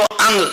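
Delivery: "अंग" drawn out with a felt NG stroke. Shown as a demonstration. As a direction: say "अंग" slowly, landing on the nasal NG. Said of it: "तो यहाँ stroke लगेगा". ("अंग", अं-ग पर धीमा stroke)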